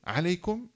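"عليكم" alone on a rise, detached from "السلام"; separated after a pause. Shown as a demonstration. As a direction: say "عليكم" by itself after a long silence. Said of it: "ثم قال".

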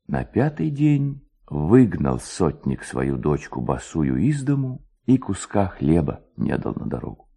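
ordinary delivery

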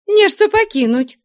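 high, loud, spirited cry; lively exclamation. Acted. Flyonushka protests to Maryushka, high, loud and lively. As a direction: burst out with sudden liveliness. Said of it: "с живостью вскликнула".

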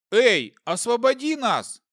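loud, high call for help; shout. Acted. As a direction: yell to get attention. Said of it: "крикнул мужчина".

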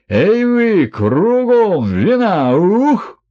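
put-on loud, wild drunken exultation; wild joy. A narrator's reading. Merchant calling for wine, loud and wild with joy. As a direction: roar it out like a reveller.

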